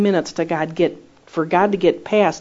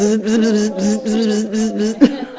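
higher, playful bzz sounds; cartoon buzzing noise; 5 semitones higher, slower than usual. Preacher mimics SpongeBob jellyfish with laughing buzzes.

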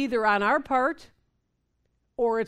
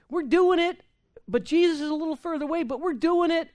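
mock bravado; 7 semitones higher, faster than usual. Mocking self-reliant believers.

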